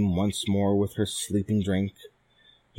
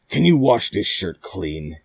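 crying out; 5 dB louder than usual. Acted. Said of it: "he cried".

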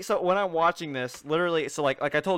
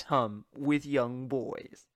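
Peter Sellers impression; 4 semitones lower, 5 dB quieter, much slower than usual. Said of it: "spoke like that".

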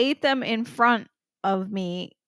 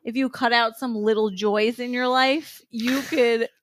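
mock sales pitch; 3 dB louder, slower than usual. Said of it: "Be like".

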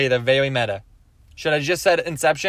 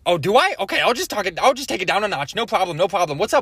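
Gary Vee; 3 semitones higher, faster than usual. Retold or imitated. Gary Vee toned down after the Wahlberg remark, lightly eager. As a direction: keep the hype but dial it down a notch. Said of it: "So this is Gary Vee".

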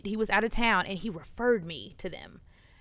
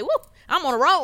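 1 mock celebratory cheer; 6 semitones higher, 7 dB louder, faster than usual. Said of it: "I was like".

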